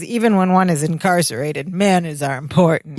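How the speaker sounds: a hint of a low thug voice; thuggish voice. Rudy lecturing Larry on manners in a mildly thuggish voice. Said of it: "Like in this thuggish voice".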